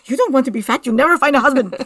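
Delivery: lightly put-on Spanish accent; a hint of a Spanish accent as the server. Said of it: "Sounds just like my Spanish accent".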